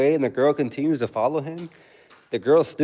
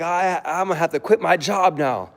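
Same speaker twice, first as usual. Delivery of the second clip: mocking whiny boyfriend; 4 semitones higher than usual.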